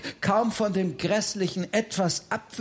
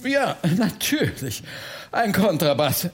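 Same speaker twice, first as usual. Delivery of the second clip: lightly voiced relief; relieved. Bertha repeats Oliver's answer, mildly relieved. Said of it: "wiederholte Bertha erleichtert".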